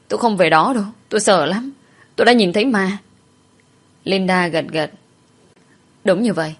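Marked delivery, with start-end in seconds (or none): 0.1-3.0 insistent, slightly raised scared voice; mildly panicked pleading; frightened protest. Acted. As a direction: refuse anxiously, pushing each phrase. Frightened girl refuses to go back.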